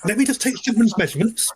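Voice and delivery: goblin tailor. Acted. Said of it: "turns back to Jack and says".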